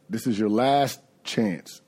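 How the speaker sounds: slow, measured warning; retold ultimatum, words drawn out; firm ultimatum. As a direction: lay down a last warning slowly.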